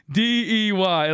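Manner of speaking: slow letters cracking up with laughter; laughing mock spelling. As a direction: spell it out slowly while laughing.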